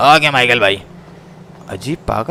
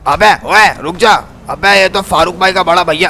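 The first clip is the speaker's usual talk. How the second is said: shouting after him; 4 semitones higher, 4 dB louder than usual. Acted. Chasing someone, calling out.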